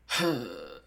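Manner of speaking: low, heavy exhale; stressed sigh. Acted. Merlin is so stressed he takes sleep aids, sighing. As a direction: sigh under mock stress. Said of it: "Merlin's so stressed".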